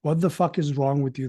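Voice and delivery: ordinary delivery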